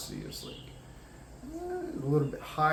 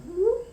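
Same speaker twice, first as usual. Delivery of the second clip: little whoop; 5 dB louder than usual. Shown as a demonstration. Imitating movement to ear points.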